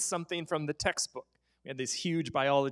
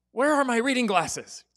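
mock teacher; 6 semitones higher, 5 dB louder than usual. Teacher voiced, looking for glasses.

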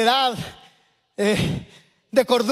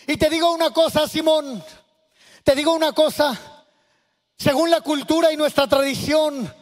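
a firm teacher correcting a proud host; lightly voiced Jesus speaking to Simon; Jesus rebuking Simon; 2 semitones higher than usual. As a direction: rebuke Simon firmly but with grace.

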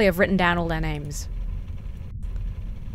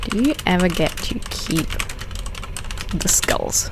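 reading while typing; 2 semitones lower than usual. Real, not acted. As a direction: mumble it in pieces as you type. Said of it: "I guess I'll ask by text".

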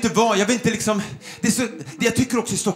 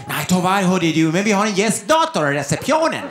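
put-on receptionist's Gotland accent; 4 semitones lower than usual. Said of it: "Hon bara".

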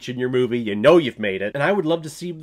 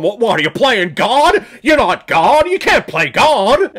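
high, loud outraged movie-hero impression; hammed-up moral outburst, stretching the last words; Jimmy Stewart; 8 semitones higher, 9 dB louder than usual. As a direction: cry out in righteous indignation, much higher. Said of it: "Jimmy Stewart is there, and he's there to tell him".

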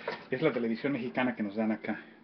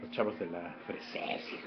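words pushed out through a burp; talking while burping; 5 semitones lower, 8 dB quieter than usual. Real, not acted. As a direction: burp slipping into the speech. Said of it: "Perdón por el eructo".

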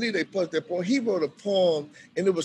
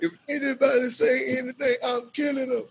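higher mock gangster threat; 9 semitones higher than usual. Eric warning everyone, hammed-up threat. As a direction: ham up the threat. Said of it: "he was like".

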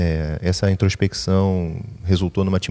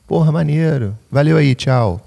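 loud, high brush-off; dismissive stranger; 8 semitones higher, 6 dB louder than usual. Retold or imitated. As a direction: wave him off in a high loud voice.

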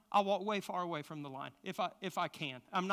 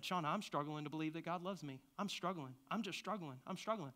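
quiet confession; 6 dB quieter than usual. Retold or imitated. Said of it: "I said".

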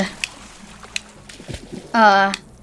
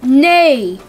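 horse neigh. Retold or imitated. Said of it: "or whatever sound zebras make".

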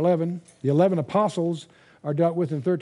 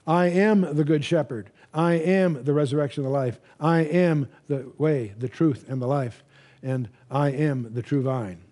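solemn scripture reading. Acted. Bible teacher proclaiming Jesus's I am sayings to the congregation. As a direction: proclaim each I am deliberately.

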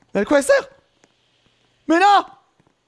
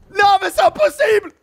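frustrated shout; 9 semitones higher, 4 dB louder than usual. Real, not acted. Frustration in game.

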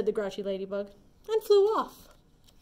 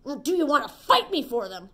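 angry challenge; 2 semitones higher, 7 dB louder than usual. Acted. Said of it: "screamed the grouchy ladybug".

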